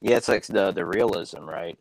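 muffled gargly audio; underwater. Real, not acted. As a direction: voice heard through water. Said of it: "you sound like you're underwater a little bit".

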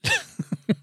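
high rattling ratchet sound, mouth only; clicking wheel noise. Acted. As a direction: imitate a spinning prize wheel. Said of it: "tu fais bien la roue crantée?".

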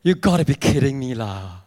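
exasperated mock protest to God; bargaining with God in comic disbelief; acted disbelief. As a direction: plead in disbelief, pitch jumping up. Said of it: "some of you are in disbelief".

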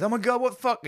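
mock panic. Retelling Anton freaking out.

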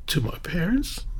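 hushed, breathy aside; soft whispered confession. Retold or imitated. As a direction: drop to a whisper. Retelling apology to family.

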